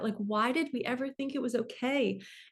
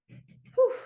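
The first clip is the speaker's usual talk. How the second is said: a loud, high, breathy exhale; whew, really out of breath; winded whew; 7 dB louder than usual. Real, not acted. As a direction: blow out air after running out of breath. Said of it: "out of breath".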